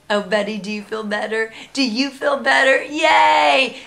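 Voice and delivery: put-on sweet sing-song to the baby, rising to a cheer; baby talk. Mom cooing to her smiling baby, sing-song praise. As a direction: coo at him then cheer. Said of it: "and I said".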